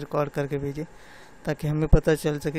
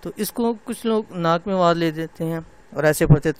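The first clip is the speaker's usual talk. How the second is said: normal talking voice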